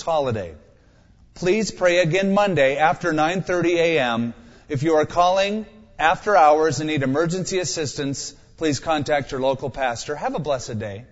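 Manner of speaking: recorded phone menu reading. Acted. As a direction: read it like an automated hotline. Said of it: "Imagine praying but getting this".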